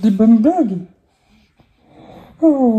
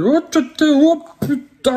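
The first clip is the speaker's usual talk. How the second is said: surpris; 6 semitones higher than usual. Real, not acted. Bébé tombe.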